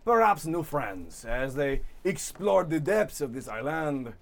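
lightly voiced, grandiose storybook fish; pompous fish character. GM voices Mustache Fish monologue.

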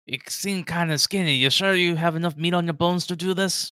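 a hint of a sizing-up dwarf; gruff dwarf. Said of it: "the dwarf look at you".

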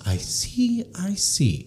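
very high, soft mock-Asian doctor voice; bad Asian accent. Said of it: "sorry for my worst Asian accent".

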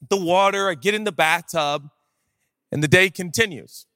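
ordinary talk, nothing marked

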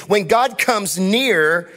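"When God comes near" drawn out slowly, each word weighed; slow emphatic. Shown as a demonstration. Pastor to congregation, slow emphatic preaching. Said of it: "Listen to me".

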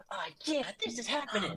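high hissing lizard voice; reptilian voice. Retold or imitated. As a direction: hiss it like a reptile. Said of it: "it's very sort of Sonic".

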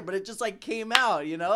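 normal talking voice

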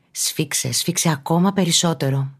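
calm but building encouragement to squeeze; controlled urging within meditation; gently urging. Real, not acted. Urging listener to tense muscles harder.

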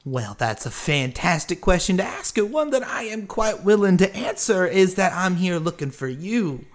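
lightly voiced showman, dropping on the name; genial stranger, obliging. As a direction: answer with a touch of grandiose courtesy. Game master voices the stranger.

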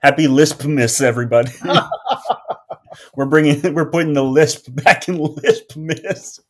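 loud, bright holiday cheer; festive announcer. Pretend.

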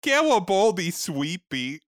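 put-on baby talk. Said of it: "That's what he said".

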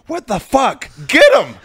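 high, loud mock yell of outrage; retold yell. Friend Jeff yelling at the crowd to get him, high loud mock shout. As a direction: belt it out like the friend rousing the room.

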